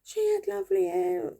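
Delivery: high, rising rueful explaining; sheepish dad. Retold or imitated. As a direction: explain it like a guilty father. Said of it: "And he".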